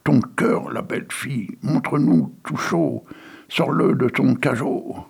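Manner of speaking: cri de foule, plus aigu; réclamer avec avidité; foule qui crie. Acted. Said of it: "les voilà qui crient". (la foule réclame le cœur de la fille, plus aigu)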